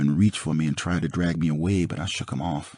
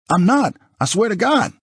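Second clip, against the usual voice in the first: pleading; 4 dB louder than usual. Acted. Frightened man pleads innocence.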